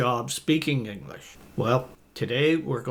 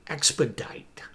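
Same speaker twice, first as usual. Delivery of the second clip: whispered word. Shown as a demonstration. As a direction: whisper "Expedite". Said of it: "that's pretty advanced".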